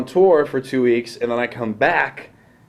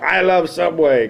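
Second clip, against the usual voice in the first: slow, raised, put-on praise; mock on-air endorsement; 6 semitones higher, 3 dB louder, slower than usual. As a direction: stretch it out as a forced plug. Imagined on-air apology, acted.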